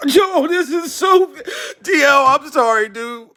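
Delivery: emotional, fighting back tears; crying. Real, not acted. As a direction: voice breaking, high and slow.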